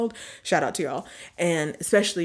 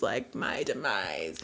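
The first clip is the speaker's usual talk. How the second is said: mock doom; 10 semitones lower, 8 dB quieter, slower than usual. Dramatic paranoid self-quote.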